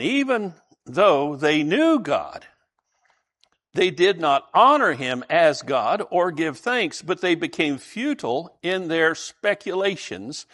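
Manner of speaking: slow, measured reading of the verse; scripture reading. Acted. Preacher reading the verse aloud to the congregation, slow and measured. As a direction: read the Bible passage slowly and deliberately.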